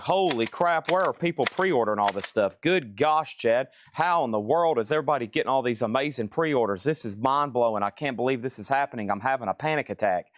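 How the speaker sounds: lightly hammed-up astonished newcomer; mock amazement. Seller mimicking a new viewer baffled by pre-orders, mock amazed. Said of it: "if you're new and you're like".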